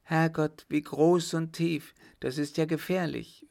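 high, loud frightened exclamation; alarmed cry. A narrator's reading. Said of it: "rief sie". (erschrockener Ausruf, höher und lauter)

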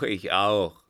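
loud, falling echo of the cry; shouted agreement. A narrator's reading. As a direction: join the chorus loudly. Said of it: "erscholl es im Kreise".

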